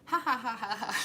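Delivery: high, loud taunting ha-ha of a game fighter; hammed-up video game victory laugh; mock fighter laugh. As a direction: cackle like Jade after a win. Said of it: "she'd be like".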